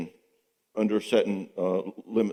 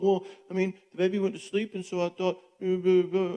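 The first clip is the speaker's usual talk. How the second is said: higher, flustered, tripping over the excuses; stumbling compliant husband; 8 semitones higher than usual. Retold or imitated. Compliant husband stammering excuses to his controlling wife, higher and flustered. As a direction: fumble for excuses like a cornered husband. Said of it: "he starts stumbling all over himself".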